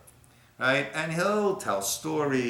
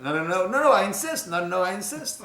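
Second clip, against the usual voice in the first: insisting Rebbe; 7 semitones higher, faster than usual. Retold or imitated. Rebbe voiced insisting in story.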